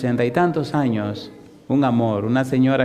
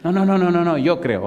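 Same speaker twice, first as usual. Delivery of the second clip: voiced old woman; 5 semitones higher than usual. Old mother hurries to reassure her pastor, hasty higher protest. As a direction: protest quickly, afraid he'll drop it.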